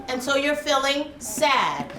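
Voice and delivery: ordinary talk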